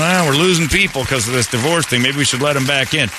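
high, hand-wringing church elder; mock worried preacher. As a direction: mimic a nervous church leader. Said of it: "wandering around going".

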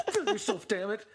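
hammed-up fan yelling at Jake; shouted urging. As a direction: yell it like a frustrated fan. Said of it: "and it's like".

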